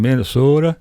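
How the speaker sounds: lightly mimicked Minnesota long O; mock Minnesotan vowels, gently done; Minnesota accent. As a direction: put a hint of Minnesota on it. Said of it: "they kinda talk like that".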